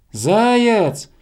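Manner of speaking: high, loud drawn-out call; bear cub shouting. A narrator's reading. Bear cub shouting up to hare, loud high call. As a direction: yell the name into the dark. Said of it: "закричал в темноту медвежонок".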